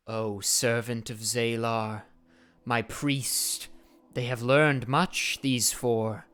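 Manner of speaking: slow, reverent cultist addressing her master; bow your head and report to the priest; devout cultist woman. Acted. The cultist woman reports to the flame priest, reverent.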